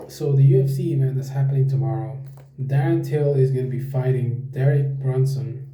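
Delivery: toothbrush in mouth; while brushing teeth. Real, not acted. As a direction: talk around a toothbrush. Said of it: "talk with the fucking toothbrush in my mouth".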